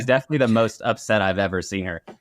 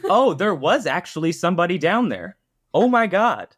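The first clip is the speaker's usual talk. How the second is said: shocked realisation; 5 semitones higher than usual. Retold or imitated. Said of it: "It's like".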